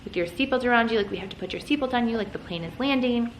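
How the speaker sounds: a touch of coaxing, retold; retold pleading. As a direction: plead lightly, trying to keep a toddler calm. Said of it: "I'm, like, pleading with him".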